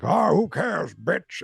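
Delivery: high, loud mocking killer voice; Freddy Krueger sneer. Freddy Krueger taunting Zsa Zsa Gabor before the kill, sneering high and loud. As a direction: sneer it like a gleeful slasher. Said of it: "as Freddy Krueger".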